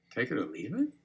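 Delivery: soft, gentle question rising sharply on "leave it"; upward inflection. Shown as a demonstration. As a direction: mirror it back quietly, lifting "leave it" into an inquiry. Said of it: "With that upward inflection".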